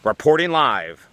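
slow, drawn-out trailer voice; milk the title like a cheesy trailer; mock movie-trailer announce. Reporter answers a young viewer in a slow mock trailer voice.

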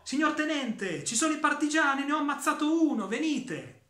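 loud, high alarmed shout; yelling to his officer for help. Acted. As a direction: call out to the lieutenant at full voice. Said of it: "Gridò".

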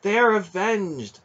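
high, loud, drawn-out cry of triumph; exultant, ringing declaration; soaring exultation. A narrator's reading. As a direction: proclaim vengeance done, exulting. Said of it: "rang in the vaults of his mind with a soaring exultation".

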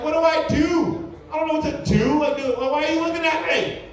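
exasperated, hammed-up fluster; flustered under pressure. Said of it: "that's all this pressure".

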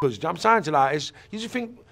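ordinary delivery

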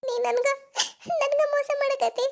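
crying through the words; tearful. Acted. Girl weeping over the lover who cheated her. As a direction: choke out the hurt.

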